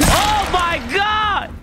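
surprised. Real, not acted. Stunned by monster.

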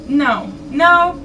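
loud, high panicked no; scared shout. Real, not acted. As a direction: shout no in fright. Panicked refusal during a scare.

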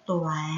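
"Tỏa" said alone, low, with oa rhyme; careful syllable model. Shown as a demonstration. Teacher shows pupils a hard word, "Tỏa" pronounced carefully with the oa rhyme. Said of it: "Vần oa, đọc là tỏa".

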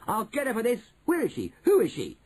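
high-pitched vengeful demands; outraged boy firing questions; angry shouting. A narrator's reading. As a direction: demand answers in rising outrage. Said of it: "he shouted".

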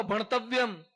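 put-on ભણતવ્યમ called out loud for the children to repeat; ભણતવ્યમ repeated as a call to the crowd. Shown as a demonstration. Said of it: "જોરથી બોલો". (ભણતવ્યમ જોરથી બોલો)

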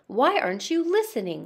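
fast, frustrated king's outburst; quick exasperated king; exasperated shout. Acted. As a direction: rush it out in annoyance. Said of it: "shouted the king".

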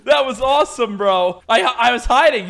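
loud, high, laughing excitement; elated laughing praise. Real, not acted. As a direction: gush through laughter after a win. Laughing after the win.

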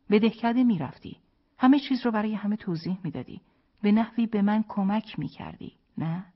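high, loud, heated reproach; reproachful. A narrator's reading. Wife tells husband how he should have helped, reproachful.

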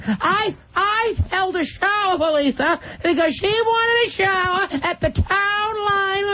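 lightly voiced nagging Massachusetts cousin, slowing on complaints; a hint of an indignant aunt; cousin Gogo. Cousin Gogo complaining about wedding showers, lightly voiced. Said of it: "It's my cousin Gogo".

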